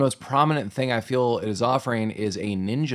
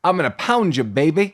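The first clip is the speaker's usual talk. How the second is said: put-on baby talk; 4 semitones higher, 4 dB louder than usual. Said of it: "a lot of baby talk".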